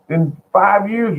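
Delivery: talking himself out of it, pitch climbing; mock alarmed pleading. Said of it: "I'm gonna say".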